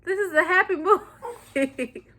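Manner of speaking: high, soft weepy imitation; hammed-up teary bewilderment breaking into laughter; mock tearful. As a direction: whimper it as if still crying. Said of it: "after I got done crying, I said".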